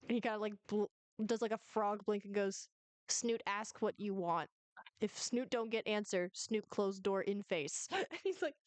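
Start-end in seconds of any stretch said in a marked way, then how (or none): 3.1-7.9 slow, measured creature voice; Snoot, curt little reptile. Acted. Tiny reptile threatening to close the door, slow and curt. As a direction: play a self-important little doorkeeper, lightly voiced.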